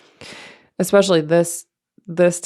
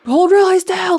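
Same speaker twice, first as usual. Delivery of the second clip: much higher, louder singsong instruction; x-ray technician; 13 semitones higher, 6 dB louder than usual. Retold or imitated. Technician tells the child to freeze, high and loud. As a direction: mimic the old x-ray tech giving orders.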